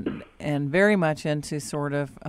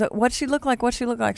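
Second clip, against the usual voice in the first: retold mom; 6 semitones higher, faster than usual. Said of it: "And her mom goes".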